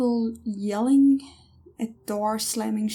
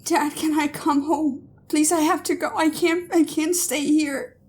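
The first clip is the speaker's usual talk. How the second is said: pleading; 5 semitones higher than usual. Acted. Daughter pleading.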